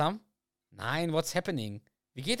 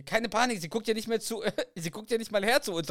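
tiny shrunken Carrie; 10 semitones higher than usual. Acted. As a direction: squeak it out as the shrunken wife. Tiny Carrie calming Doug. (winzige Carrie mit hoher Stimme)

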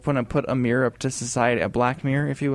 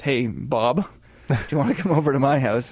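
bad British accent. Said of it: "That's a terrible British accent".

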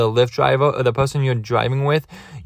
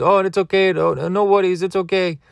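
lightly voiced driver, higher pitch; reassuring driver; 6 semitones higher than usual. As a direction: imitate a driver waving away a worry. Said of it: "And he goes".

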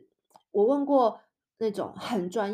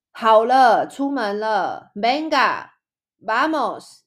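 partner hurrying you out; 3 semitones higher, 8 dB louder, much slower than usual. Retold or imitated. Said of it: "我另外一半就会说".

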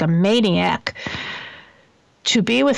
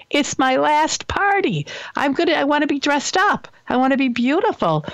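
mom's voice; 4 semitones higher than usual. Retold or imitated. Late mother bossing her daughter from beyond, mock stern then pleading higher. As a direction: play the bossy dead mom demanding a party dress, half laughing. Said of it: "I hear her voice saying".

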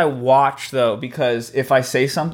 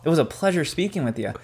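customer service voice; 4 dB quieter than usual. Pretend. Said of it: "it's customer service voice".

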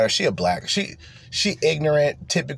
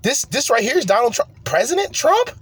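incredulous; 11 semitones higher than usual. Real, not acted. Disbelief at Trump's video.

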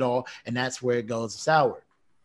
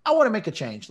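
mock-eager friend, pitched much higher; 9 semitones higher than usual. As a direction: play an eager buddy signing on, voice jumped way up. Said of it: "you can say".

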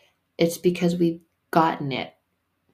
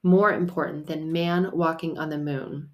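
"More" lengthened at the start; emphatic "More important"; stress on more. Shown as a demonstration. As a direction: open with a heavy "More". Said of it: "Hear the word more".

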